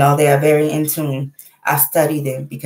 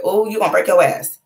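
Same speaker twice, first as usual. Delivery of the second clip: playful, slightly raised mock warning; joking warning; 4 semitones higher than usual. Mother joking with her kids, playful warning. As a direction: tease a child about a coming tumble. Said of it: "I be joking with my kids".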